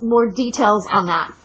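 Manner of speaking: ordinary delivery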